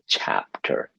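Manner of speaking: "chapter" with weight on CHAP, weak ending; first-syllable stress. Shown as a demonstration. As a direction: lean on the first part of "chapter". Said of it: "using stress in the first part".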